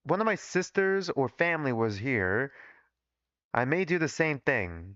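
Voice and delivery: put-on laboured, heavy Southern accent; thick Southern accent. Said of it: "why did I make his accent so thick".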